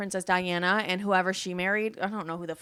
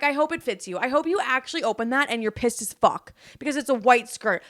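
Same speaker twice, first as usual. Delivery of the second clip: high, loud sarcastic wish; indignant spite; 3 semitones higher, 6 dB louder than usual. Retold or imitated. Cursing the man who stole her skirt, loudly indignant. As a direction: spit a bitter wish at the absent thief.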